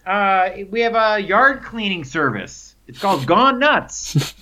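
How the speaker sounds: cheery pitch. Retold or imitated. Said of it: "I said".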